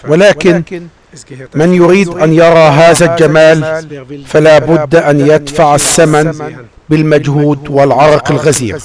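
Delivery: ordinary talk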